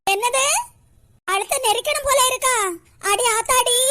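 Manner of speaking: startled what, then oh my; shocked. Acted. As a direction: recoil in alarm, pitch up. Threatened with strangling, shocked.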